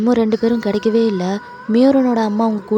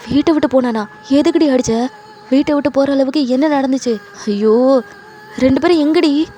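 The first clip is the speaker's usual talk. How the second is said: louder, higher, exasperated questioning; heated acted scolding; angry interrogation; 4 semitones higher, 4 dB louder than usual. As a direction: demand an explanation in alarm. Husband demands why she hit son.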